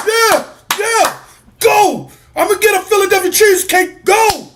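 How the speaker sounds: high, fast, excited fan voice; mock fan cheer. Mocking Phillies fans cheering in the stands, high and giddy.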